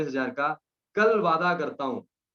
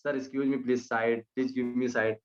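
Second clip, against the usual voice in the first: sweetly polite; 4 semitones lower, 3 dB quieter, much slower than usual. Retold or imitated. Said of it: "बड़े प्यार से".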